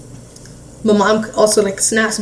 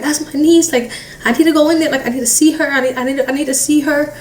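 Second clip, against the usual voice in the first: mild mock yell, urgently repeating the demand; retold yelling; 5 semitones higher than usual. Mom kept out of the house by cops, retold yelling. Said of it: "just, like, yelling".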